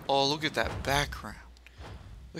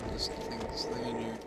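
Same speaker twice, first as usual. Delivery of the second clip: whispering; 6 dB quieter, faster than usual. Real, not acted. Exploring a spooky dungeon.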